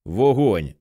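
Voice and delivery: plain reading voice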